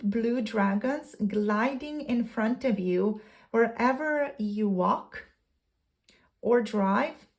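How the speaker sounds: deliberate read-aloud with pauses between phrases; measured card reading. Acted. Reads second card's guidance aloud.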